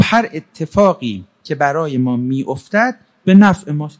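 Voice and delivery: slowed-down, deliberate delivery; deliberate repeat. Acted. Asked to repeat the motto.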